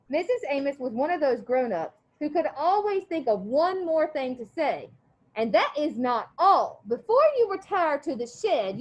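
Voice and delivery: steady read-aloud voice for the class; story read aloud. A narrator's reading. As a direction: read the chapter to the students. Teacher reads novel aloud.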